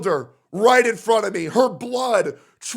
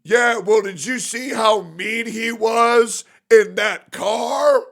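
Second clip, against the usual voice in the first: mock accuser; slower than usual. Streamer imitating a critic, slow and mocking. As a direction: drag it out like a petty critic. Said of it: "nobody has any proof other than".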